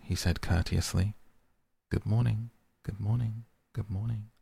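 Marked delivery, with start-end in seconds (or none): 1.9-4.3 fading echo. A narrator's reading. Echo fading back to the prince. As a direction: let it die away down the mountain. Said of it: "answered the echo".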